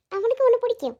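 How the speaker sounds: high, lilting reassurance; motherly reassurance. Acted. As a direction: coo comfortingly to a child.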